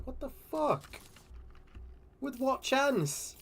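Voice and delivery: high, slow stunned disbelief; stunned, drag it out. Real, not acted.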